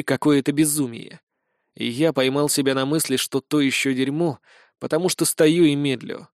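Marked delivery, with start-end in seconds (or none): none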